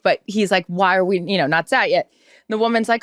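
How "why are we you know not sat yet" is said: toned-down, only mildly put-out complaint; not that disgruntled. Retold or imitated. Diner asks the hostess about the table, only mildly disgruntled. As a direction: ask it without the dramatics. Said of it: "he says it not that disgruntled".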